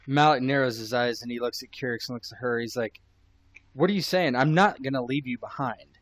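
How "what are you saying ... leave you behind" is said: indignant. Acted. Malik confronts Elsa.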